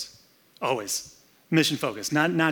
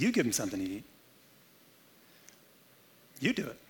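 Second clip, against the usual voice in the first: much softer, low, calm instruction; calm quiet command; 3 semitones lower, 9 dB quieter, much faster than usual. Acted. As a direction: hand it back to them gently. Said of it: "He says".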